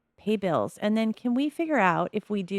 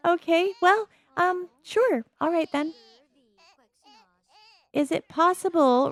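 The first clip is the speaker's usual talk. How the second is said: amused; 10 semitones higher than usual. Real, not acted. After laughing, amused.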